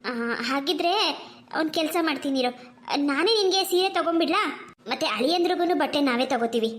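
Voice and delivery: a hint of a caring mother; gentle mother. Mother planning shopping.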